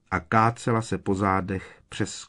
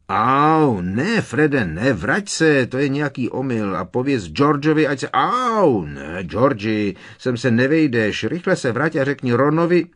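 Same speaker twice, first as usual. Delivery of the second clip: put-on muffled boys' voices; 5 semitones higher, 6 dB louder than usual. A narrator's reading. Boys squeezed in chimney.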